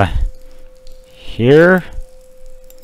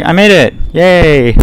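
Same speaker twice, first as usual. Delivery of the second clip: excited cheer; 5 semitones higher, 4 dB louder, slower than usual. Real, not acted. Reaches the room.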